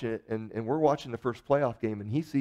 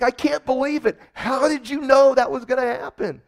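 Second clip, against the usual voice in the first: much higher, louder mock disbelief; imitating amazed friend; 11 semitones higher, 8 dB louder than usual. Friend after the Super Bowl win, stunned high disbelief. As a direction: gush it like a stunned fan.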